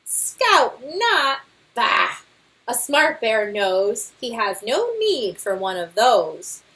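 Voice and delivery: boastful Papa Bear. Acted. Father bear brushing off the scouts' guidebook, boastful. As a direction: scoff at the book with bravado.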